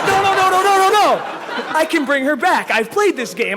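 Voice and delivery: panicked yelling. Retold or imitated. Retold own panic at her death.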